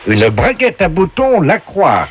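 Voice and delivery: high, slow game show host. Acted. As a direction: announce each prize grandly and slowly. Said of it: "on vous passe tout de suite la voix du jeu".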